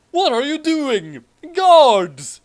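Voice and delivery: high, loud cry for guards; panicked scream. Acted. Schneisel seized by Putin, screaming for his guards. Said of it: "Schneisel screamed".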